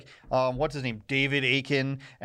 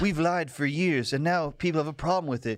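mock whiny journalist; 4 semitones higher than usual. Mocking journalists' complaint.

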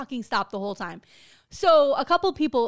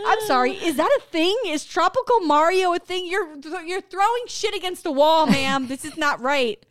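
mock furious; 4 semitones higher, 3 dB louder than usual. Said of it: "I was so furious".

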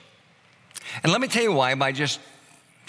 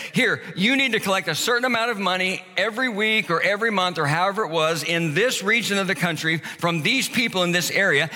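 a hint of a smug Roman official, higher; Roman recruiter; 3 semitones higher than usual. Roman recruiter tempting a Jewish tax collector, slyly higher. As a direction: pitch the tempting deal like a sly boss. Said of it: "they said".

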